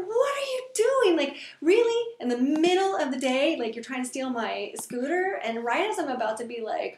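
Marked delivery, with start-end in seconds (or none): 0.1-5.4 high, loud indignant shout at a thief; outraged yell. Retold or imitated. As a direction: yell at the man hammering your lock. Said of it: "I'm yelling at him".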